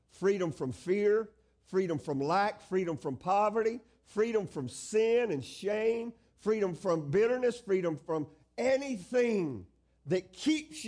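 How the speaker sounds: stretched key words, slow emphatic sermon delivery; emphatic preaching. Acted. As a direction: preach it as a driving list. Preaches a rising list of freedoms.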